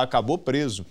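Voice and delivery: ordinary delivery, nothing marked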